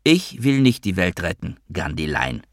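unwavering emphasis on "Ich"; cool stress on ICH. A narrator's reading. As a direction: lean coolly on "Ich", then let the line fall away. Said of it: "mit kühler, unbeirrbarer Betonung auf dem Ich".

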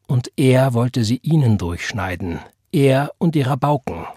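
firm but composed; calm emphasis. A narrator's reading. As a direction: press the point calmly. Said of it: "mit ruhigem Nachdruck". (mit ruhigem Nachdruck)

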